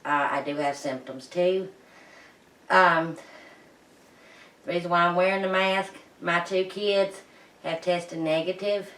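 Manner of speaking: muffled behind a face mask; through a face mask. Real, not acted. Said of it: "I have a mask on my face".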